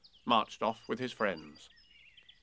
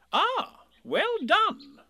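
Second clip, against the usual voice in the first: kindly; 8 dB louder, much slower than usual. Acted. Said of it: "said Rabbit kindly".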